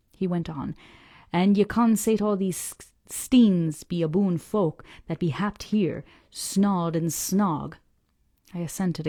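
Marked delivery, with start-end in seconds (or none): 1.3-7.7 put-on slow, gruff old sailor grumbling about lies; an old salt scorning the parsons' tales, slowly; old Yorkshire fisherman.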